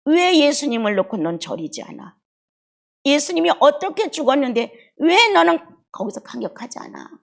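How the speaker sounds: self-rebuke. Real, not acted. Rebuking herself before congregation.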